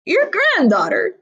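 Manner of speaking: high, loud squeak; wolf faking a little girl's squeak. A narrator's reading. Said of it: "I squeaked".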